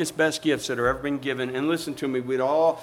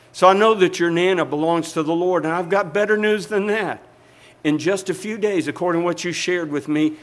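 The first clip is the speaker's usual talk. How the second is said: building preaching; 3 semitones higher, 6 dB louder than usual. Real, not acted.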